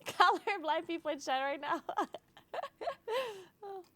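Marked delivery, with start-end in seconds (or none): none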